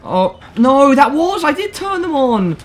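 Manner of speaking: high loud panicked cry. Real, not acted. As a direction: panic as things go wrong.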